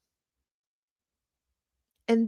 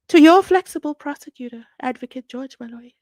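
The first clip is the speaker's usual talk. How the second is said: sarcastic; 3 semitones higher, 9 dB louder than usual. Real, not acted. Vlogger introducing the prosecutor to viewers, sarcastic scorn. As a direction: say his title with scorn.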